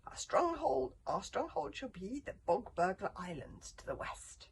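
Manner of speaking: high, loud battle cry that eases off; commanding shout. A narrator's reading. Leader shouting orders to companions in battle, loud shout. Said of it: "and shouted".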